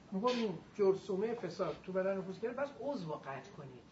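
ordinary delivery

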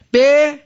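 "به" alone, high and loud; sukun ending. Shown as a demonstration. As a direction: call out "به" as a held, isolated syllable. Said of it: "بازم سکونه".

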